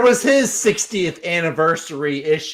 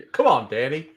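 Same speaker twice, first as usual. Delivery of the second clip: cool guy voice; 4 semitones lower than usual. Pretend. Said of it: "I would just talk real cool like this".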